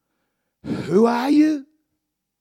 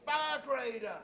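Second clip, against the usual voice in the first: tearful hush; 6 semitones higher, 10 dB quieter than usual. Real, not acted. Tearful quiet climax.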